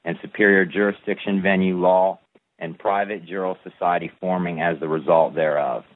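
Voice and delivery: steady, measured recital of a legal text; formal document reading. Acted. Reading his declaration of independence to a follower, formal recital. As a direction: read it like a solemn proclamation.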